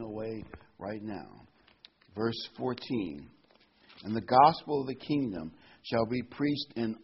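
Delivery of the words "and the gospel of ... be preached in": scripture read with weight on "all"; stress on all. Shown as a demonstration. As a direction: lean hard on "all". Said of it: "I wanna emphasize that little word".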